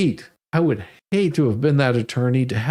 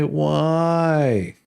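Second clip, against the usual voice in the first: put-on annoying toddler. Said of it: "he had this most annoying voice".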